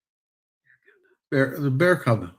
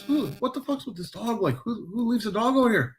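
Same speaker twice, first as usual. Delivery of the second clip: quoting himself; 10 semitones higher, 4 dB quieter than usual. Retold or imitated. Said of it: "I says".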